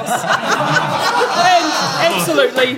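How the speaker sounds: high, loud and fast; excited shout. Real, not acted. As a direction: belt it out with glee. Host announces monster, shouting.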